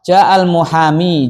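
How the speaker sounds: ja'al muhami read out slowly; slow model reading. Shown as a demonstration. (contoh bacaan pelan)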